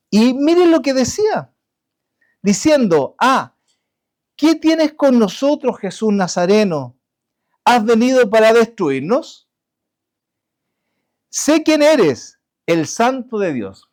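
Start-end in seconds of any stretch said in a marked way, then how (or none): 3.2-13.9 demon crying out. Retold or imitated. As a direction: let the possessed man cry out at Jesus. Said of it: "dio voces".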